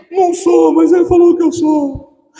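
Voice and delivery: put-on very high, loud childish whine; whiny child. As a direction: whine it like a hurt kid. Child answer voiced.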